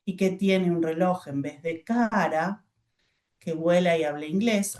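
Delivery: slow, with a pause at the comma; slow choral reading. Shown as a demonstration. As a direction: read slowly, stopping at each comma. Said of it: "tienen que parar un poquito".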